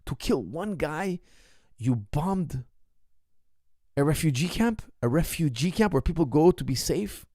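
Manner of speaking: slow, stunned questions rising at the ends; a newsman who can't believe it; mildly imitated shock; shocked disbelief. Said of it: "And he was shocked".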